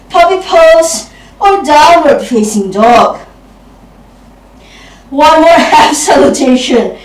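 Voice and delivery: winded from the flow; out of breath. Real, not acted. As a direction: talk while catching your breath. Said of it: "I'm out of breath".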